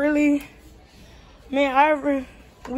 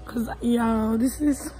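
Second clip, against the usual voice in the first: muffled behind a face mask; through a face mask. Real, not acted. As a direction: talk through a cloth mask. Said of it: "don't mind my mask".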